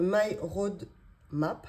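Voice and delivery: slow, careful English brand name "My Road Map". Real, not acted. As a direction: spell out "My Road Map" slowly in a French-accented English. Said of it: "Excusez mon anglais".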